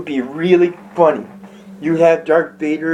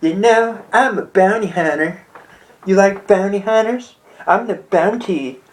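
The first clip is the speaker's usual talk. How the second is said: higher, flirty mock come-on; lightly voiced flirty Boba Fett; 4 semitones higher than usual. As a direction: purr it like a flirting bounty hunter. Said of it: "tells Han".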